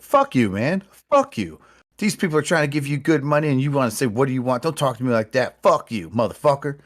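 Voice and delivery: hammed-up drunk yelling at a vendor; mock angry yelling. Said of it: "He's just screaming at the guy".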